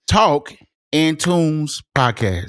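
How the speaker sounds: slow, drawn-out show name; announcer voice. Shown as a demonstration.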